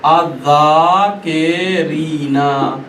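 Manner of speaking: अज़्ज़ाकिरीना drawn out slowly, doubled ज़ and long ई; अज़्ज़ाकिरीना stretched slowly with the doubled ज़; slow recitation. Shown as a demonstration. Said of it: "मैं कह रहा हूँ".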